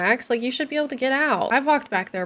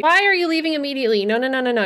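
fast frantic plea; 4 semitones higher, faster than usual. Real, not acted. Sims leaving the spa.

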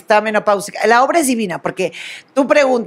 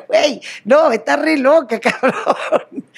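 laughing disbelief; 4 semitones higher, slower than usual. Retold or imitated. Retold reaction, laughing.

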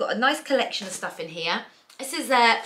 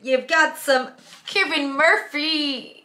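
put-on Australian accent; 4 semitones higher than usual. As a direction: play an Aussie shop host, hamming the Australian accent.

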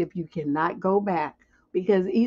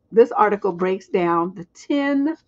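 ordinary talk

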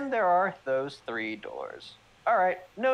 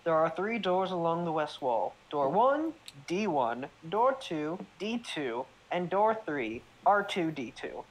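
DM narration. Acted. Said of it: "D M voice".

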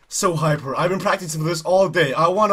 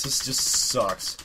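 dejected mutter; 9 semitones lower, 7 dB quieter, much slower than usual. Real, not acted. Disappointed at redo.

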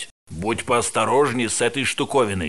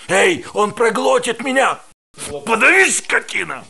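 screaming defiance at the monster; terrified scream; 10 semitones higher, 5 dB louder than usual. Acted. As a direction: scream as it grabs you. Being swallowed by creature.

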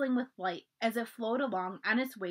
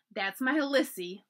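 laughing; 3 semitones higher, slower than usual. Acted. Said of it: "laughed Mother to Grandfather".

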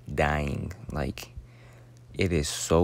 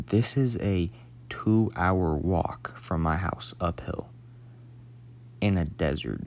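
slow whisper. Real, not acted. Stressing how long the walk was.

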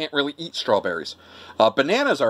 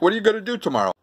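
higher-pitched Brooklyn question; Brooklyn accent; 6 semitones higher, much faster than usual. Shown as a demonstration. Showing how Brooklyn answers questions, Brooklyn accent. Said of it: "you answer a question with".

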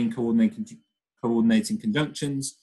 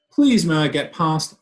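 louder, higher grumbling plea; 5 semitones higher, 7 dB louder than usual. Acted. Child grumbling at the cat to get past, loud and whiny. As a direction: grovel and grumble at once. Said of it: "I grumbled, grovelled".

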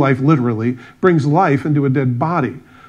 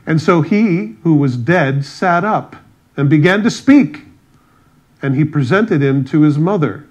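raised, measured Bible-reading voice; scripture reading; 3 dB louder than usual. Acted. Preacher reading a gospel story to the congregation, emphatic scripture reading. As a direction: read the passage out with emphatic, declamatory phrasing.

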